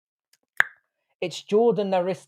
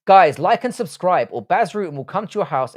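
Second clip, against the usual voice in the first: loud hype plea; 3 semitones higher, 5 dB louder than usual. Real, not acted. Channel call to action.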